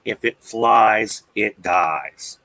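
quoted saying, slow. Retold or imitated. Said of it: "What's the old duck hunting saying?".

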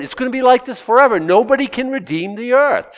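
voicing John's realisation that nothing will change; lament. Shown as a demonstration. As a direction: cry out "forever" as a lament. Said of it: "That's lamentable".

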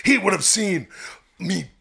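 lightly voiced Hulk Hogan, brother; a hint of wrestler promo swagger; talking to the guys as Hulk Hogan, mild wrestler bravado; Hulk Hogan impression. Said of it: "brother ... I took on The Rock".

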